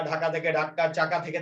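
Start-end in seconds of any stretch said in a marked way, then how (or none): 0.5-0.8 ঢাক্কা with a doubled k; emphatic double k inside ঢাক্কা; doubled consonant. Shown as a demonstration. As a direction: lengthen the k in ঢাক্কা: dhak-ka. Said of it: "একটা শব্দকে জোর দিয়ে উচ্চারণ করার জন্য".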